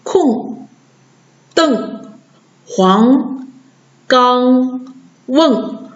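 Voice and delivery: 空, 瞪, 黄, 刚, 瓮 with plain ng endings; back-nasal demo. Shown as a demonstration. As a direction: read 空, 瞪, 黄, 刚, 瓮 singly, no r. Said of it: "这个读".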